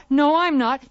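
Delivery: loud. Shown as a demonstration. Loud take of repeated line.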